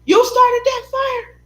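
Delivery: high, loud, slow accusing disbelief; aunt's shocked question. Retold or imitated. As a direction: drag it out in shock. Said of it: "she was like".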